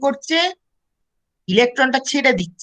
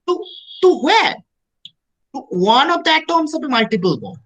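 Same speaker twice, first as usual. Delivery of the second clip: slow dictation; much slower than usual. Acted. Teacher dictates notes again.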